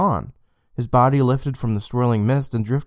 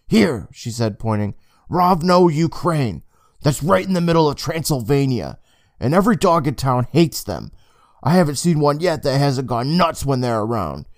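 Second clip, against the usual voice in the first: excitedly; 3 semitones higher than usual. Acted. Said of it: "Emma said excitedly".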